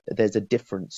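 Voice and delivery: ordinary talk, nothing marked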